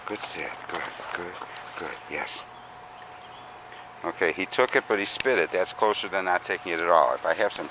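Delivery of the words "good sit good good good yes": flat, quiet praise; calm and level; monotone praise. Shown as a demonstration. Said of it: "Just monotone praise".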